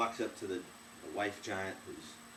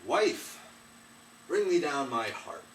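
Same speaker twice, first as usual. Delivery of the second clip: loud, higher bellowed order; commanding giant; 5 semitones higher, 8 dB louder, slower than usual. Acted. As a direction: bark it down the hall. Drunk giant orders wife.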